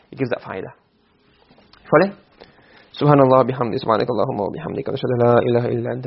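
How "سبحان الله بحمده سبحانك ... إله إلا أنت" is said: closing prayer. Real, not acted. Closing supplication after the lesson.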